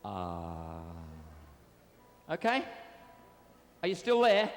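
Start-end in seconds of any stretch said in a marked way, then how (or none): 0.0-0.8 mournful ah. Shown as a demonstration. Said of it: "if you could all go".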